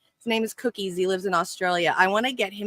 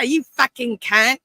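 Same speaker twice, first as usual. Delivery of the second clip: slow, higher and louder, stretched-out playful jab; hammed-up insult; 6 semitones higher, 5 dB louder, slower than usual. Repeating the insult to his cohost, slow and hammed-up. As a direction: drag it out for laughs, hamming it up.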